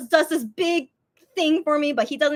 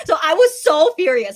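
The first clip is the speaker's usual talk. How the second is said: laughing; 5 semitones higher, 8 dB louder than usual. Real, not acted.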